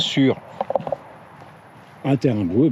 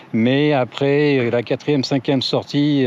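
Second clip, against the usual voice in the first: slow, weighty "Mais après la quatrième, cinquième sortie"; slow emphasis; 3 semitones higher, slower than usual. Shown as a demonstration. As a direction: drag out "quatrième, cinquième" to stress them. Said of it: "alors je parle pas de sortie qui dure".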